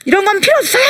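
put-on a kid flinging the cloth away; eager high-pitched refusal; child refusing.

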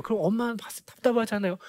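ordinary talk, nothing marked

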